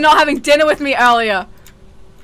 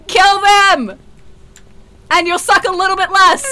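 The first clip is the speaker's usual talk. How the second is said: taunting call; 2 semitones higher than usual. Real, not acted. Player taunting a ghost to make it kill their friends, taunting call.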